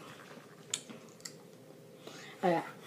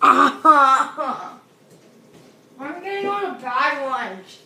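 laughing; 4 semitones higher, 6 dB louder, much slower than usual. Real, not acted. Laughs at bad luck.

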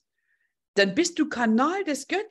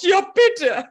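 a lightly voiced eager wife, higher and louder; voicing the wife; 8 semitones higher, 8 dB louder than usual. Coach speaks for the departed wife, mock eager and bright. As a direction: chirp it out as the absent wife giving her blessing. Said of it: "deine Frau sagt".

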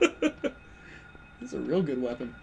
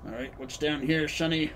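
put-on old man voice; faster than usual. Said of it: "doing, like, an old man voice".

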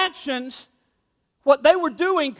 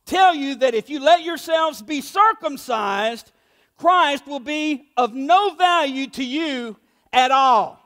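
emphatic; slower than usual. Retold or imitated. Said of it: "he's being emphatic".

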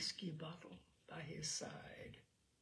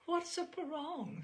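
startled question; 11 semitones higher than usual. Acted. Frightened old mother asks.

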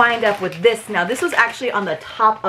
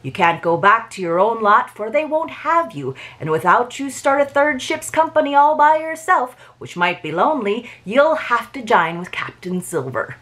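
Long John Silver voice. Acted. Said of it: "forgive my, uh, pirate voice".

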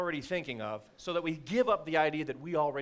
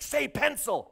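sneaky whisper-cue; 10 semitones higher, 4 dB louder, slower than usual. Retold or imitated. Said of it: "You can't go, like".

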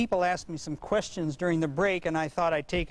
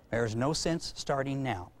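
slow, soft deadpan; 5 semitones lower, 4 dB quieter than usual. Shown as a demonstration. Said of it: "what he said was".

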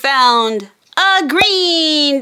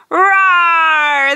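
mock dinosaur roar. Hostess voicing a toy dinosaur for kids, playful roar. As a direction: growl like a friendly dinosaur.

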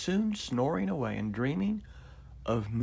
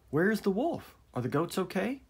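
gasping villagers; 7 semitones higher, 4 dB louder than usual. A narrator's reading. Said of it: "the villagers gasped".

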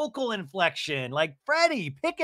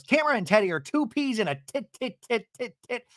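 fast, higher imitation of Vicky; mock Vicky rant; 7 semitones higher than usual. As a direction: rattle it off like an angry Vicky. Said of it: "Vicky goes".

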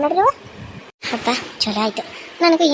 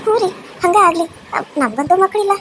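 aunt. Acted. Aunt agrees with husband. (ಮೃದುವಾದ ಅತ್ತೆ)

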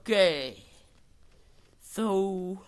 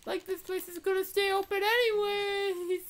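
mock high voice; 14 semitones higher than usual. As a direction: pitch it way up and stretch the line endings. Mock carefree reaction in the game.

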